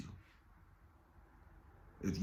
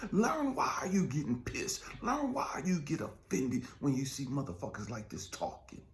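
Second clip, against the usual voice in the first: urgent whisper; 3 semitones higher than usual. Real, not acted. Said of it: "whispered exhortation".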